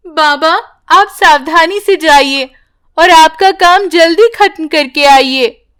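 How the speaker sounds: put-on a small girl fondly sending her father off; little daughter voice. (हल्की ऊँची बच्ची की आवाज़)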